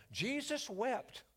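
spoken slowly like a treasured verse; slow recitation. Shown as a demonstration. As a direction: savour each word slowly. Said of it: "Look, I'll give you one right now".

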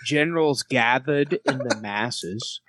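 slow Australian lyric recital; Australian accent. Shown as a demonstration. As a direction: metal lyric, slowly, as an Australian. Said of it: "We'll do it in Australian".

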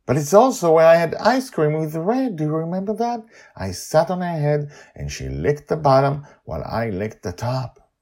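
put-on high, eager girl's voice; a young girl thrilled at what she sees; excited child Joy. Joy spots the cloud city, high and thrilled.

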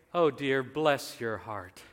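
slow mock sympathy, pitch sinking; nice nasty. Someone too afraid to disagree, nice nasty. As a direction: politely put someone down under cover of sympathy. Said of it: "a way to be nasty by being nice".

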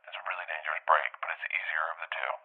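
hushed whisper, no voice; whispered warning. Retold or imitated. Jason whispering his warning about the dangerous break.

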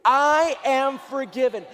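slow, loud, all caps and bold; shouted declaration. Shown as a demonstration. Preacher leading the congregation in a loud, slow declaration. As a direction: shout it like you mean it. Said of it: "Let's try that again".

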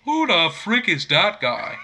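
slow, hammed-up Irish fighter accent; put-on Irish accent, drawn out; Conor McGregor. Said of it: "your best Conor McGregor impression".

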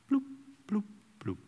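small, soft bloop noises; draining bloops. Acted. Joy tank dropping after a lost match, soft bloop noises. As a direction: let soft bloops sink away. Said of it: "probably gonna drop back down".

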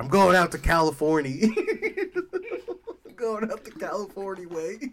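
sing-song poor drifter; dustbowl drifter voice. Pretend. Dustbowl migrant voice.

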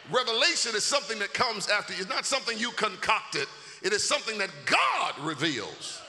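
forceful sermon delivery; emphatic preaching. Acted. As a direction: drive the point home to the church. Drives the point home.

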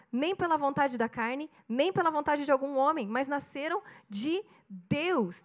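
slow solemn Bible reading; scripture reading. Acted. Pastor reading John to the church, slow and solemn. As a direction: read the verse slowly, weighing each phrase.

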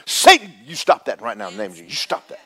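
fast, loud rebuke that fades off; rebuking the devil. Retold or imitated. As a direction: command Satan to stop, then drop it. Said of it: "I think".

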